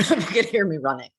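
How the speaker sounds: amused, laughing through the words. Real, not acted. Host back from a dash off-screen, laughing. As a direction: laugh at your own hurried return.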